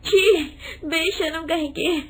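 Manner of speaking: a hint of outraged, tearful widow. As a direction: scold the rude girl, near tears. Widow throws them out angrily. (गुस्से और आँसुओं से भरी विधवा)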